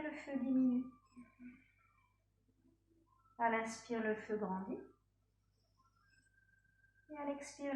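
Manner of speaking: measured yoga-teacher voice with long pauses; guided breathing meditation. Real, not acted. Yoga teacher pacing students' breath by an imagined fire, calm guided meditation. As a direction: lead the breath calmly, phrase by phrase.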